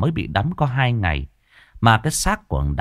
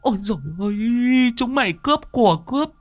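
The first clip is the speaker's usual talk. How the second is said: put-on much higher, shrill-free wailing old woman; old mother lamenting. A narrator's reading. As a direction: cry out to her sons in anguish, pitched far up. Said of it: "Bà mẹ thốt lên". (giọng bà mẹ già than thở, rất cao)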